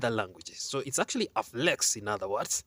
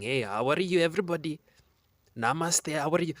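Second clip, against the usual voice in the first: imitating an Indian accent, slightly raised pitch; 3 semitones higher than usual. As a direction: put on a mock Indian accent. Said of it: "you can go to India for five".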